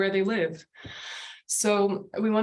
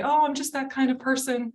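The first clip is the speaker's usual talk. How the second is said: lightly mimicked excuse, higher pitch; mock self-excuse; 6 semitones higher than usual. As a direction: brush it off in a slightly higher voice.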